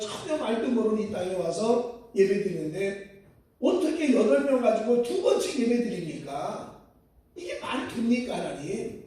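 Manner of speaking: lightly acted grumbling prayer to God; half-laughing, mock-indignant complaint; complaining angrily. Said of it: "하나님께 불평하면서 화를 냈답니다". (하나님께 가볍게 화내며 불평)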